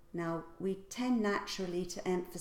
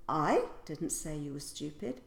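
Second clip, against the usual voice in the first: I didn't say you were stupid, with I stressed; 4 semitones lower than usual. Shown as a demonstration. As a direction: lean on the word I, pitch rising. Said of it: "So I could say".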